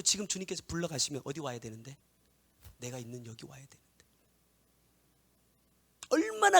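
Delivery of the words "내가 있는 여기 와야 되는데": soft, unvoiced solemn whisper; whispered preaching. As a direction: whisper the revelation hushed. Whispered sermon. (속삭이는 설교)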